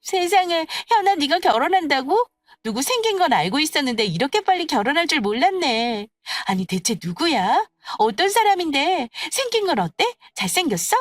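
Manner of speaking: high, excited flurry of questions; astonished friends. Acted. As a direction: marvel and pry eagerly for details. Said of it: "깜짝 놀라며 입을 다물지 못했습니다".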